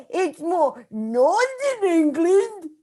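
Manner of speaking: put-on Northern English accent. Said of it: "so you do an English accent?".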